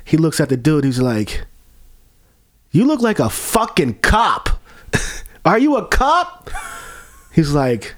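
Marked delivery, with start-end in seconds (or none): 2.7-4.5 mock drunk accusation. 5.4-6.5 high, slow suspicious question; drawn-out drunk suspicion; imitating a drunk. Drunk asking the chef, high and slow.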